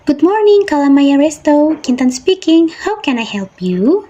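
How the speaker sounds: bright high Good morning, then settling into the greeting; teacher models the tune of a phone greeting for pupils; phone greeting intonation. Shown as a demonstration. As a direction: greet the caller like a friendly receptionist. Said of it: "perhatikan ya nada rendah ibu".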